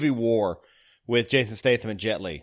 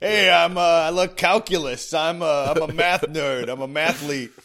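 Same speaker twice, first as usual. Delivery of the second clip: nerd voice; 4 semitones higher, 4 dB louder than usual. Acted. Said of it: "I like your nerd voice".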